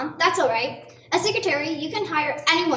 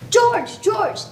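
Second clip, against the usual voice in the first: excited calling; 6 semitones higher, 3 dB louder than usual. Acted. Bursts in with good news.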